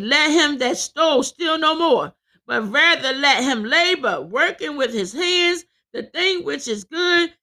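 emphatic declaimed Bible reading; scripture preaching. Real, not acted. Preacher reading verse twenty-eight aloud, emphatic declaiming. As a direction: read the verse out with a preacher's force.

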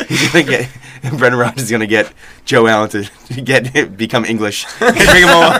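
slow retelling broken up by laughter; laughing. Real, not acted. Podcaster repeating the gaffe about Joe Allen, laughing. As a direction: get it out between laughs.

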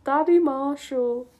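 high, slow cringe; mortified repeat. Real, not acted. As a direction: repeat it in drawn-out dismay. Repeats line in dismay.

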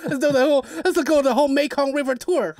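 Asian accent impression. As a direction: put on a comic Asian accent through the laughter. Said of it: "You hear his accent is the best".

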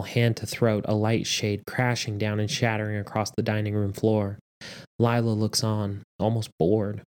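measured audiobook narration; story narration. A narrator's reading. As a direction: read the story aloud with steady drama. Reads story aloud.

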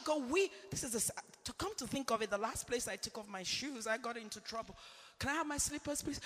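quiet aside. Real, not acted. Aside about shoes, dropping voice.

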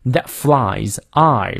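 "flies" drawn out slowly with the full eye glide; full diphthong in FLIES. Shown as a demonstration. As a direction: give "flies" both sounds of its vowel, slowly. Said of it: "双音念到位".

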